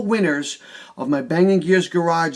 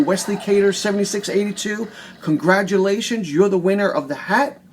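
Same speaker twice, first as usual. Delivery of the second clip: hyped giveaway announcement; 3 semitones higher than usual. Real, not acted.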